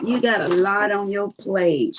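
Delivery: lightly imitated Louisiana accent; cute Louisiana accent. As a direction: put on a Louisiana accent, lifted in pitch. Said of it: "she from Louisiana with her cute little accent".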